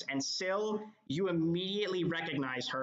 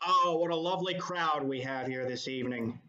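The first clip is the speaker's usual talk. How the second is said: prim baritone host; 3 dB louder than usual. Acted. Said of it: "speaks in a low baritone voice".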